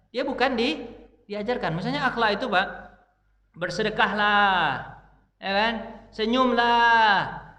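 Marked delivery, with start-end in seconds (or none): 3.5-5.0 slow, stretched moral instruction; mock lecturing, syllables held long; drawn-out exhortation. Shown as a demonstration. Mimics merely telling children morals. 6.1-7.5 very slow, louder, stretched command; mock lecturing with long-held syllables; drawn-out exhortation. Shown as a demonstration. Mimics merely telling children morals.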